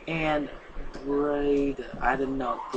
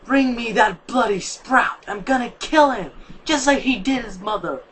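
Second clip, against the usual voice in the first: raging; 6 semitones higher, 7 dB louder than usual. Acted. A mother sunflower demanding the sprout, raging loudly. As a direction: scream for the child's blood in rage. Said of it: "said in rage".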